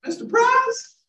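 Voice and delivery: high, loud Texas holler; great Texas accent. Retold or imitated. Texas neighbor lady teasing a short father, shouted Texas accent. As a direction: shout it across the street in a hammed-up Texas accent. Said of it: "her great Texas accent".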